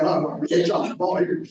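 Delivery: loud, half-joking retold panic; panicked. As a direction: replay the alarm with extra volume. Retold panic about the camper.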